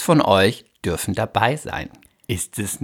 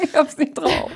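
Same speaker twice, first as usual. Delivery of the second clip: laughing. Real, not acted. Laughing admission.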